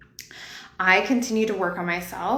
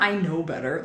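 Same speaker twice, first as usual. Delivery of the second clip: self-scolding; 4 semitones lower than usual. Retold or imitated. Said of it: "Like, not".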